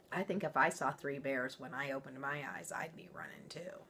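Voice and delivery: hushed confiding whisper; whispered aside. Real, not acted. Reader whispering to the listeners she'd run too. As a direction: whisper it as a shared joke.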